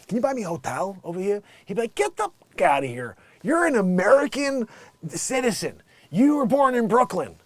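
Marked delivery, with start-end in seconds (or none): 0.1-1.4 lightly put-on Brooklyn accent; offhand mock New York talk. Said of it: "with a New York accent". 1.9-7.4 mock indignant rejection. Acted man rejecting her request.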